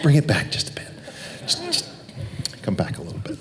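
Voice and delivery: director's voice. Retold or imitated. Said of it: "I added the voice like this".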